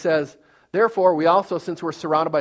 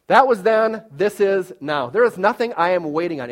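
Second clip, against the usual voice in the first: emphatic proclamation; 2 semitones higher, 4 dB louder than usual. Acted. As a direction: declare it with force. Emphatic preaching declaration.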